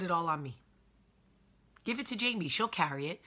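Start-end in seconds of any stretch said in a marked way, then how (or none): 1.8-3.2 lightly voiced ad jingle, a bit higher; mock commercial voice. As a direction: toss off the slogan like a TV ad. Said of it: "Remember that commercial".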